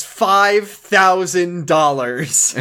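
lightly voiced YouTuber, very slow and drawn out; Hbomberguy voice. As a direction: drag out the sum like a dramatic reveal. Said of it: "H Bomber guy voice".

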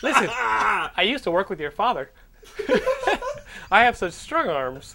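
hammed-up smooth stranger, cracking up; laughing as creepy Armando. To the kid, as Armando, laughing through the lines. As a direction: lay on the charm while laughing.

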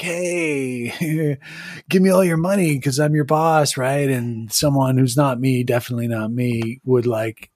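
lightly voiced, rambling nervous underling; apologetic nervous minion. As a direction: make halting excuses to the boss.

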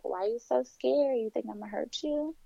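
soft, imitated questions with veiled threat; creepy tone. Woman retelling the driver's veiled threats, softly creepy. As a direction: lightly imitate a creepy driver, keeping it quiet. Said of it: "talking to me in this creepy tone".

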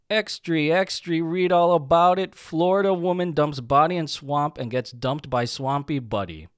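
put-on loud, high newspaper boy cry; newsie shout. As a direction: hawk the headline like an old-time newsboy. Newsboy headline shout.

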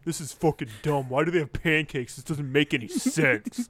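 quick, mildly irritated rant; imitated annoyance. Imitating commentator Graves griping about pancakes, mild annoyance. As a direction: rattle it off as a mock grumble. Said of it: "he's mad about it".

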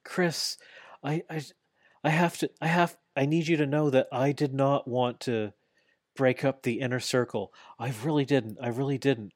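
hammed-up tearful pleading, voice pushed up; mock sobbing plea. MJF begging Jericho for forgiveness, mock sobbing. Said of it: "he's sputtering and he's crying".

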